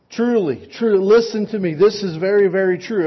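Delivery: urgent double amen; earnest emphasis. Retold or imitated. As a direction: press it home like Jesus insisting. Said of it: "here's the big truth that Jesus is saying".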